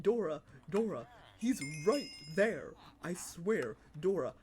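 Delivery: mild mock kid yell at Dora; frustrated child. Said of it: "getting so frustrated with her".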